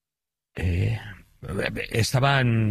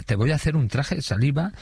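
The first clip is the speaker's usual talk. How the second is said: lightly acted catcall, a little higher; repeated catcall; 4 semitones higher than usual. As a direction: quote a lewd catcall with only mild imitation. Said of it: "Yo no había escuchado eso en mi vida". (piropo repetido, imitado levemente)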